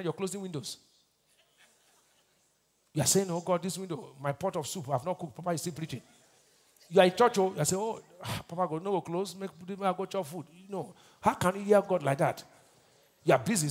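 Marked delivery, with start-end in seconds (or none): 3.3-6.0 softer, private inner grumble to God; imitating distracted worshipper. Congregant thinking of soup during preaching, lightly imitated, softer. 7.8-10.5 soft, private plea under the preaching; imitating impatient worshipper. Hungry congregant wishing church would close, imitated softly.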